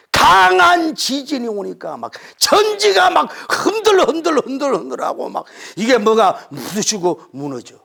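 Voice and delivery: high, loud shouted description; preacher acting out a mighty earthquake; dramatic. A narrator's reading. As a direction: shake the room with the quake.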